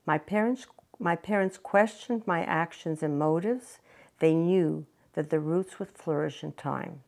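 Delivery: measured personal memoir reading; prepared reading with pauses between sentences; story narration. Acted. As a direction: read your own story aloud, phrase by phrase. Reads her written story aloud.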